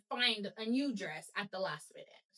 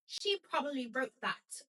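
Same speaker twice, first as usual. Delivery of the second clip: a weak, quiet attempt at a British accent; mock British accent, softer; 4 dB quieter than usual. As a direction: try Victoria in a British accent, barely landing. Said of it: "I'll do it in a British accent".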